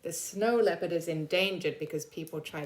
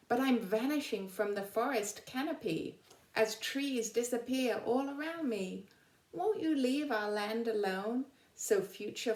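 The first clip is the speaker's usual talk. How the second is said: lively storybook poem reading; reading a poem aloud; 3 semitones higher than usual. Acted. Teacher reading an animal's poem to her class, lively storybook voice. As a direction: read it to the children like a rhyme.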